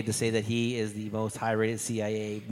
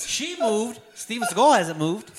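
very high, loud, laughing disbelief; laughing exclamation; 10 semitones higher, 7 dB louder, slower than usual. Real, not acted. Host compares woman and motionless actor, laughing in high disbelief. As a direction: blurt it out through laughter.

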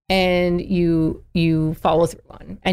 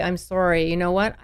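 calm firm parent. Retold or imitated. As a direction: gently hold the line with a child. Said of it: "you have to say".

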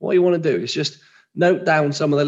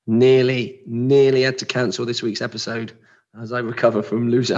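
rough, strained voice from a cold; hoarse voice; 3 semitones lower than usual. Real, not acted. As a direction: push through a sore throat. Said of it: "you've got a little bit of a poorly voice".

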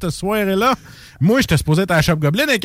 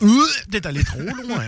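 hammed-up seductive line, a bit higher; sultry adult film voice; 4 semitones higher than usual. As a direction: purr it like a cheesy adult movie. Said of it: "ça sonne film de, de fesses".

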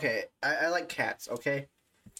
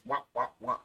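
Pac-Man chomping kisses; 2 semitones lower than usual. Retold or imitated. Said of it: "kissing him like Pac-Man".

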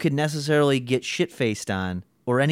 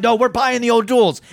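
high, loud mock outburst; heated, raised-voice imitation; retold insistence; 9 semitones higher, 6 dB louder than usual. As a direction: imitate a worked-up dad putting his foot down. Retold customer insisting to crying kid.

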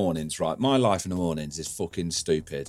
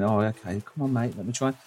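coaxing softly; 4 dB quieter than usual. Retold or imitated. Coaxing a stray cat.

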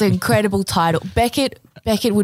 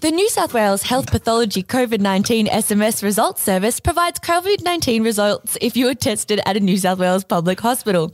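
robot voice. Acted. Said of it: "can I do a robot voice?".

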